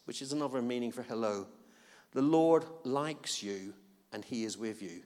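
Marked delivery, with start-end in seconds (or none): 2.1-5.0 tender blessing. Acted. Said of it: "Who needs to hear that today?".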